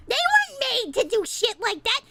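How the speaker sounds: rising into a high, loud wail; outraged yelling. Real, not acted. Streamer defending point-and-click makers, building to a yell. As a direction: build from annoyed to shouting, stretching the end. Rant boils over again.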